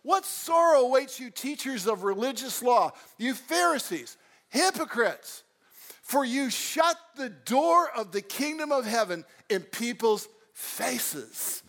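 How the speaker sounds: a fiery rebuke from the pulpit; preaching Jesus' woe. Acted. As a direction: thunder it at the Pharisees. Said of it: "he says this".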